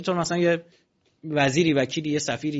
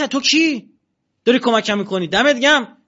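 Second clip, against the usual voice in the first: grateful dead man; 7 semitones higher, 8 dB louder than usual. Retold or imitated. Dead man thanks his defender angel.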